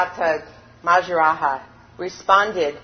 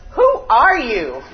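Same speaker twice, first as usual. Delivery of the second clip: echo; 4 semitones higher, 7 dB louder, slower than usual. A narrator's reading. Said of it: "the only answer he received was".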